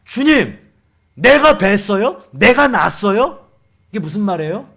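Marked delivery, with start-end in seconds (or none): 0.0-3.4 loud, indignant mock questions; talking back. Moses challenging the Lord over the people, talking back. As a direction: protest to God, hitting each question hard. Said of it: "두 번째 뭐라고 대드냐?".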